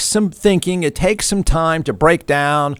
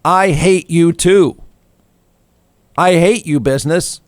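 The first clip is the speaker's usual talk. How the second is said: angry bumpkin. Retold or imitated. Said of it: "the angry bumpkin says".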